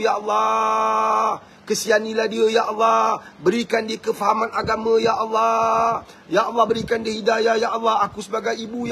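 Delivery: heartfelt prayer with stretched cries of ya Allah; mother's earnest prayer. Acted. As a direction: beg God for your child. Mother praying for her child.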